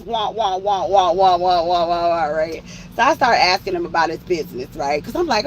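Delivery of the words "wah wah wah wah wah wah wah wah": wah wah noise. Retold or imitated. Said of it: "all I hear is".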